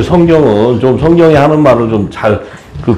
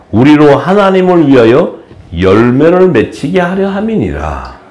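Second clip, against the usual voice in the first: scripture reading; slower than usual. Acted. Reads scripture aloud.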